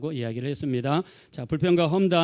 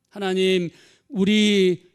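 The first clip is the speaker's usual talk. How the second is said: loud, raised appeal to God; resentful complaint; 4 semitones higher, 7 dB louder, much slower than usual. Acted. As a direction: protest loudly as the aggrieved people. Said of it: "하나님 앞에 불평하고 원망했어요".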